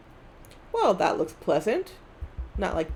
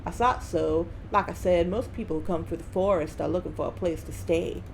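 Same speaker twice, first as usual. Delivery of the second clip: put-on Southern accent. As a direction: lay on a rough Southern US accent. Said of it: "someone from the South who's drunk and Cartman".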